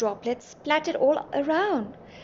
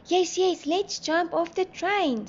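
high-pitched keen exclamation; high, excited assent; eager agreement; 7 semitones higher, slower than usual. A narrator's reading. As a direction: agree urgently in a raised pitch.

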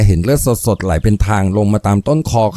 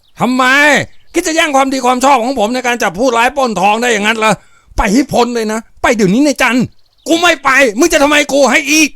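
blind with rage; 13 semitones higher than usual. Acted. Foreman losing his temper and cursing at the boss's daughter. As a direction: lose it and snarl at her. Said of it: "หน้ามืดด้วยโทสะ เขาหลุดโพร่งวาจาที่รุนแรง".

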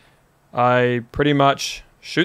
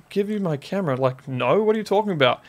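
high, softer retold protest; shocked disbelief; 5 semitones higher, 4 dB quieter than usual. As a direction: replay your stunned refusal. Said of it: "I was in so much shock".

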